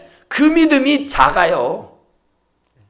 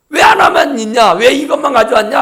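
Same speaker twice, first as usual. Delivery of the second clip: loud accusing shout; blaming shout; 3 semitones higher, 5 dB louder than usual. Acted. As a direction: hurl the blame at each other. Disciples blaming each other. (서로 탓하며 소리치듯)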